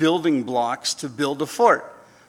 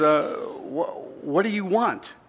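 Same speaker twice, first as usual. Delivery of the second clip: put-on old man; 3 semitones higher, slower than usual. Deaf old man asks.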